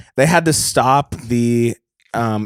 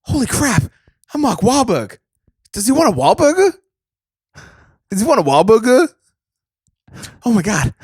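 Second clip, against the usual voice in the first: higher, hammed-up Boston tough guy; mock Wahlberg; 9 semitones higher than usual. Podcast bit, he voices the star discovering the hijack. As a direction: bluster like a dim action star.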